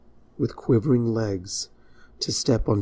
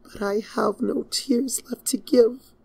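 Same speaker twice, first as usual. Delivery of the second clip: high, hollow whisper through her hooves; drained princess whispering; muffled whisper; 13 semitones higher than usual. Acted. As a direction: breathe it out with nothing left. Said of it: "her voice muffled under her hooves".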